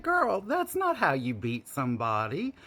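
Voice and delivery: sassy. Retold or imitated. Scolding the sister's technique.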